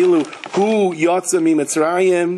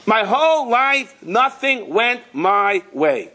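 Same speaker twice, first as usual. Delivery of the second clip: self-pity; 8 semitones higher, slower than usual. Acted. Self-pitying person voiced in sermon.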